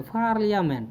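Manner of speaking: पार्लियामेंट with an aspirated फ-like P; corrected sound. Shown as a demonstration. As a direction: say पार्लियामेंट with a puff on the P. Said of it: "पहले होता था पार्लियामेंट".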